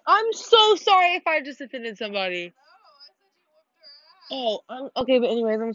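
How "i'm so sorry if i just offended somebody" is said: flustered apology. Real, not acted.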